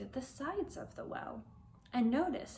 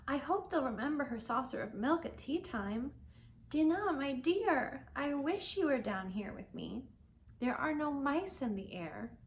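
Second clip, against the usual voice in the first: put-on young Alice missing her cat Dinah; Alice's voice; 3 semitones higher than usual. Alice talks to absent cat.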